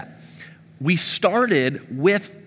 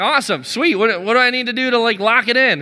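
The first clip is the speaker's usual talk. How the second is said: excited; 5 semitones higher than usual. Retold or imitated. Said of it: "I'm getting excited".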